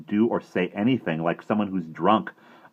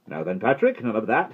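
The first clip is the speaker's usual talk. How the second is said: gruff; 5 semitones higher, 4 dB louder than usual. A narrator's reading. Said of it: "he said gruffly".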